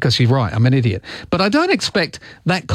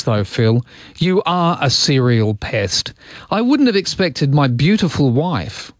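reading a text slowly; slower than usual. Retold or imitated. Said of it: "here's a text that just came in".

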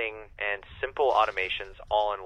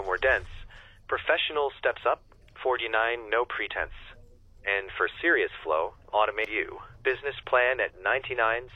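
light rhyming sales pitch in a lightly lilting voice; playful rhyming poem read aloud; poem recital. Shown as a demonstration. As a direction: recite the price list as a little rhyme. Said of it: "like, a poem to me".

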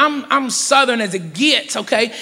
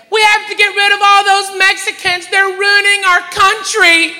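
racist lady heckler; 9 semitones higher, 4 dB louder than usual. Retold or imitated. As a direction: imitate an outraged woman shouting from the audience. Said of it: "a white lady stood up and said".

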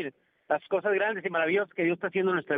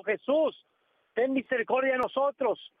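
mock cry for mercy; 5 semitones higher than usual. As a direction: cry out to Jesus for mercy, half-voiced. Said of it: "empezaron a gritar, alzando la voz". (súplica a gritos, alzando un poco la voz)

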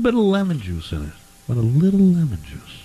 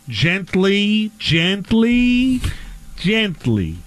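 gently; 3 semitones higher, much slower than usual. Shown as a demonstration. Demonstrating gentle removal.

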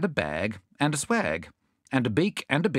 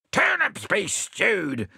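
yelled; 10 semitones higher, much slower than usual. Acted. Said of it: "yelled Bill in such a tremendous voice".

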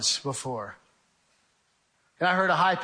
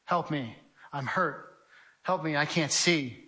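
mild imitated cries for help; 6 dB quieter, slower than usual. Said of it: "the cries and the screams of people in the darkness".

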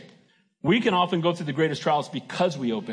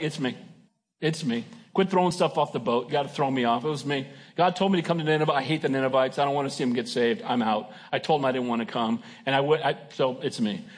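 lower, sulky confession; guilty Jonah; 5 semitones lower than usual. Retold or imitated. Jonah confessing to the sailors, lower and sulky. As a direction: grumble it out like a reluctant prophet owning up. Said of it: "And Jonah was like".

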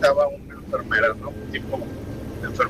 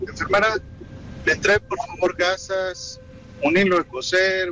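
higher-pitched mock doctor calling for supplies; imitated doctor; 6 semitones higher than usual. Imita al doctor pidiendo material. (imitando a un médico que pide material)

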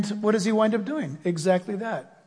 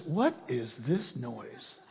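put-on young David asking; 10 semitones lower, 12 dB quieter, much slower than usual. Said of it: "One kid shows up and says".

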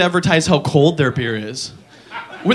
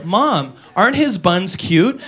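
put-on girl in the ad; 4 dB quieter, slower than usual. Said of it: "she'd go".

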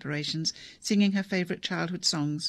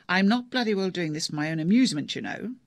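exasperated; 5 dB louder than usual. Acted. Deb losing patience with father.

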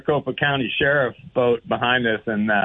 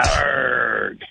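pirate growl. Pretend. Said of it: "Talk Like a Pirate Day".

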